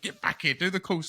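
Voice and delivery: high mock nagging; imitating friend. Friend Alex calling him back to golf, mock nag. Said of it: "He was like".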